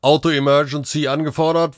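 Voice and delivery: matter-of-fact dispatch report, pitched high; robot dispatcher. Acted. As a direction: announce it like an automated operator. Robot dispatcher reports over radio.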